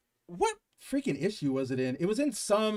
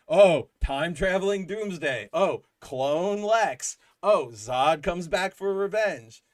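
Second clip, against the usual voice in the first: slow, drawn-out sarcastic listing; mocking list of clichés; 4 dB louder, slower than usual. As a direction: drag out each cliché with mock boredom. Mocking generic plot ideas.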